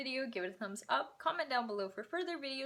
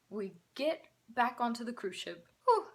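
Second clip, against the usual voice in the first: breathless, puffing; out of breath; 4 dB louder than usual. Real, not acted. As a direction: catch your breath between words. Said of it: "I'm out of breath".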